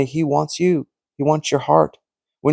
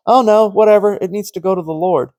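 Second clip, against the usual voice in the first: dismissive friend; 5 semitones higher than usual. Retold or imitated.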